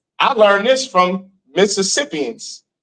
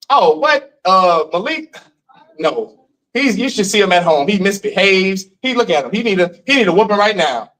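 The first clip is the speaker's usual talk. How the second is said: imitating mother, defensive. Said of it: "You know what she would say?".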